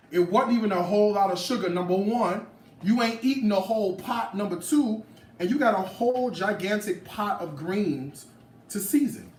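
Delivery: scolding critics. Real, not acted. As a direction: put the critics in their place.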